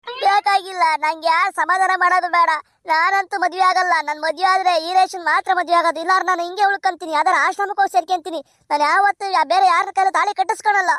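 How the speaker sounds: a daughter swearing she'll wed no one else; girl's voice, stubborn and upset; upset voiced daughter. Daughter refuses any other groom.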